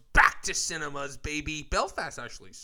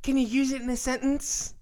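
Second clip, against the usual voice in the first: spelling bee contestant; 10 semitones higher than usual. Pretend. Spelling bee joke, asking for sentence.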